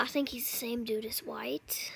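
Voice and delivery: hushed aside whisper. Real, not acted. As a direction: whisper it to the camera. Aside to camera.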